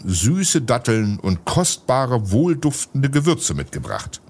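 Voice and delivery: dignified foreign gentleman, unhurried; solemn voice. Acted. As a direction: lay out the gifts with ceremony. Turbaned gentleman keeps speaking.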